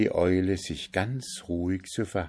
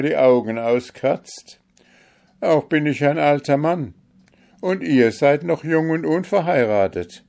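put-on higher, much louder, outraged old servant; indignant protest; 7 semitones higher, 7 dB louder than usual. A narrator's reading. Grand Vizier protests to the Kalif he won't wed the owl, loud and indignant. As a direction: refuse with alarm and outrage.

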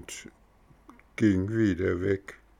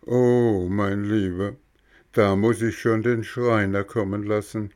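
snail voice; 2 semitones higher than usual. Acted. Schnecke antwortet gelassen. (leicht höhere Schneckenstimme)

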